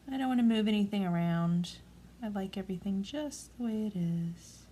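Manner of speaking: calm, gentle instructor's voice; Bob Ross. Real, not acted. Crafter gently sealing loose glitter in, calmly. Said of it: "You sound like Bob Ross over there".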